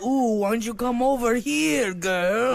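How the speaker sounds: creepy seductive voice. Acted. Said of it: "Why is he have to talk like that?".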